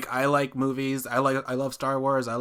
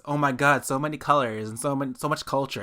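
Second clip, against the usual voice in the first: light mock Valley Girl accent, slightly raised; imitating a Valley Girl accent, understated. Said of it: "in, like, the Valley Girl accent".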